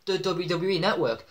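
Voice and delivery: lightly acted wrestling promo; a touch of a wrestler's emphatic challenge; Triple H. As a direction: deliver a measured ultimatum to a rival. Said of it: "saying to Sting".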